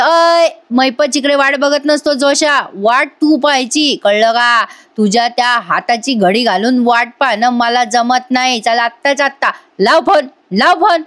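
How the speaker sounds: retold irritated boss. Boss refuses to wait and orders lawyer to phone, mock irritation. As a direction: imitate an impatient boss ordering a call. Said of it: "मग महिपत चिडतो आणि म्हणतो".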